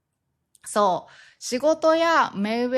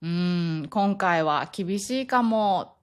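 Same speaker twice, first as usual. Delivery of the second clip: soft refusal; 3 semitones lower than usual. Shown as a demonstration. Declining so as not to offend, hesitant. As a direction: drag it out as if reluctant to refuse. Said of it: "柔らかく断ります".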